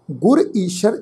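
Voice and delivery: ਗੁਰ ਈਸ਼ਰ set apart, stop after ਈਸ਼ਰ; ਗੁਰ ਈਸ਼ਰ as one measured phrase, then a break; pause after phrase. Shown as a demonstration. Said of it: "ਵਿਸ਼ਰਾਮ ਚਿੰਨ੍ਹ ਦਾ ਖਾਸਾ ਖਿਆਲ ਰੱਖੋ ਜੀ".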